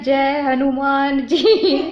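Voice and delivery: long, stretched mock cry; retold shriek. Retelling how she broke free, drawn-out mock shriek. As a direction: imitate crying out, holding each word. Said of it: "एकदम से उसका हाथ हटाते चीखी हूँ मैं".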